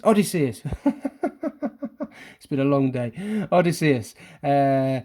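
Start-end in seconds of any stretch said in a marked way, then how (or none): 0.0-0.6 Odysseus said firmly as o-DIS-see-us; confident Odysseus. Shown as a demonstration. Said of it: "Miss O'Riordan will know how to say that". 0.7-2.2 a high, light laugh at herself; embarrassed little laugh; high giggle. Real, not acted. Laughs at own mispronunciation.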